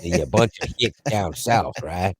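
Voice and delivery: mock hick Southern accent. Firing back about hicks down south, Southern accent. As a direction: answer back in down-South twang. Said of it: "talking like I'm from somewhere way down".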